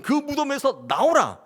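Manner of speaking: high, slow, ringing command; commanding shout. Acted. Jesus calling Lazarus from the grave, slow ringing shout. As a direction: call out of the grave slowly. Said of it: "외쳤던".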